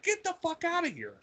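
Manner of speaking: high-pitched incredulous reaction; retold disbelief. Retelling disbelief at mom's news.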